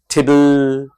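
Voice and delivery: the el at the end of टेबल and सिंपल drawn out; stretched final le. Shown as a demonstration. Teacher shows students how to stretch final le. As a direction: stretch only the final l sound. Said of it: "उसको stretch करना होगा".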